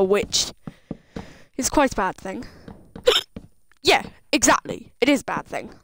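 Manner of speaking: talking through hiccups; hiccuping. Real, not acted. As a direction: hiccups between words. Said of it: "I'm hiccuping now".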